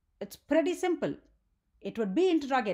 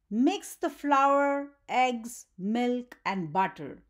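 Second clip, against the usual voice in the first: slow, deliberate instruction, each item spaced; much slower than usual. Shown as a demonstration. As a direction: give the recipe as an order, word by word. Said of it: "So that is a command".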